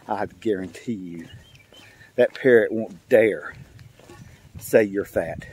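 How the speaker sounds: low, soft smug confidence. Acted. Lady walking back into the store, low smug mutter. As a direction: gloat quietly, slow and sure of it. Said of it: "and she's so smug".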